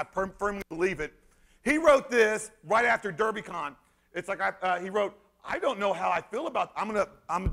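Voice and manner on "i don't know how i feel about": lightly voiced mock journalist; imitating Sterling Riggs. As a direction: read it out as a sing-song parody of the writer. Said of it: "this is how he talks".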